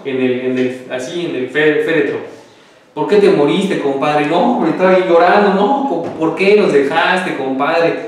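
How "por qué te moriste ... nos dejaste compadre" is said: put-on drunk wailing. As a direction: cry out to the dead friend. Borracho llora en el velorio. (lamento borracho y lloroso, más agudo)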